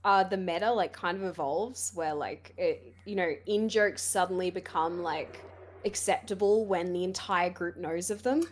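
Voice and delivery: hoarse, strained voice; losing voice. Real, not acted. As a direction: talk through a failing voice. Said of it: "I'm losing my voice".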